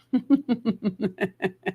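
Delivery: soft run of even chuckles. Real, not acted. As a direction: chuckle lightly in a steady string. Amused at losing the viewers.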